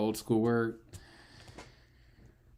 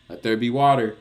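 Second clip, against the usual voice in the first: louder, higher mock-biblical decree; mock proclamation; 5 semitones higher, 11 dB louder than usual. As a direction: proclaim it like a grand scripture line. Mock biblical proclamation over water.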